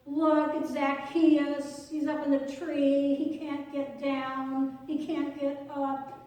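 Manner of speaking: loud, slow jeering call up into the tree; mocking crowd call. Crowd jeering at Zacchaeus stuck up the tree, loud mock call. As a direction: taunt him, drawing out the name.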